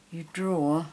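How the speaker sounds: breath held while drawing; holding breath. Real, not acted. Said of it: "I'm holding my breath here".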